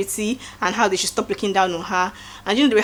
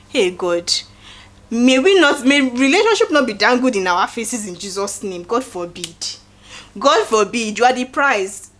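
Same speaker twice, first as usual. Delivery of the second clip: mock prayer; slower than usual. Vlogger praying over her viewers, fervent mock prayer. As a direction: pray it like a preacher, playfully.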